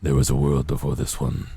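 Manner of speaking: deep ancient undead king voice; the Lich. Retold or imitated. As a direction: read it low like an undead lord. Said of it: "this sounds like, uh, the Lich from Adventure Time".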